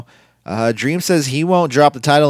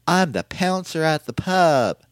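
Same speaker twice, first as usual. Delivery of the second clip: slow, higher-pitched comic character voice; silly pub bouncer; 7 semitones higher than usual. Pretend. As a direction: ham up a goofy pub bouncer, drawing it out. Playing a pub bouncer called pouncer.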